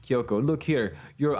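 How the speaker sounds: lightly put-on Jamaican accent; a playful hint of Jamaican accent; Monokuma with Jamaican accent. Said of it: "why is Monokuma Ju-, Jamaican now".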